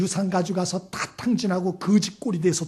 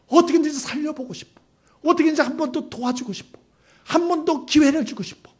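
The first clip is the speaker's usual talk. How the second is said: higher, earnest yearning; fatherly pleading; 7 semitones higher than usual. Acted. Preacher voicing a father God longing to save people, urgent pleading. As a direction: plead for someone you long to save.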